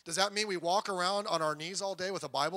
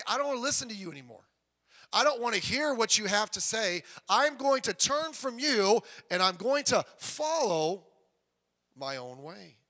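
mock rebellious vow; defiant declaration; 3 semitones higher, 5 dB louder than usual. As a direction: turn away from God out loud. Voicing a defiant sinner.

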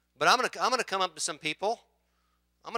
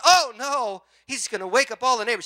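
alarmed wife; 7 semitones higher, 8 dB louder than usual. Retold or imitated. Wife alarmed at husband running.

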